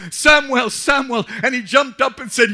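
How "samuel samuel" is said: loud, high call of the name; crying out. A narrator's reading. God calling the boy, loud cry. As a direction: call Samuel out from far. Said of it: "Jehovah cried".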